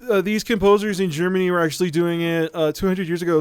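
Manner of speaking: a light mock of a smug online pedant; neckbeard know-it-all. Mocking a neckbeard who corrects blues players online, smug pedant. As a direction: lecture everyone condescendingly with "um, actually". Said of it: "some neckbeardy kind of guy online can now be like".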